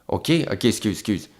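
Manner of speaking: soft, small "ok, excuse"; meek apology. Retold or imitated. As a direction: back down quietly.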